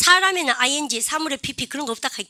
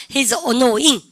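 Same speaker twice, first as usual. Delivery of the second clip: model reading; 5 dB louder, much slower than usual. Shown as a demonstration. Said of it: "시작".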